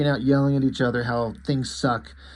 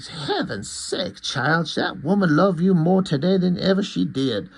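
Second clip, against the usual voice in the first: lightly voiced folksy older woman; a hint of fond exasperated elder; reassuring mother-in-law; 4 semitones higher than usual. Mother-in-law assures him Wanda loves him, lightly acted, folksy. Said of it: "his ex-wife's mother".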